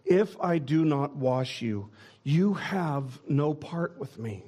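slow, firm yet kind warning; slowly, with gentle firmness; Jesus warning Peter, firm and gracious; gracious but firm. Shown as a demonstration. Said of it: "he speaks with such grace and such kindness".

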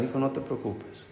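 gentle quiet "Hijo, no te preocupes"; soft reassuring parent. Retold or imitated. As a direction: hush him kindly. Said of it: "Que nuestros padres dijeran".

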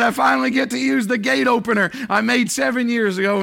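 mildly excited quote of the farmer; delighted retelling. Retold or imitated. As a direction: relive the man's proud little joy. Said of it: "He said".

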